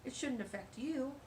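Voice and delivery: a touch of quick, indignant pushback; indignant protest. Retold or imitated. Reader imitating talking back to a yeller, indignant. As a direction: question the yeller, half-joking. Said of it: "You know, or".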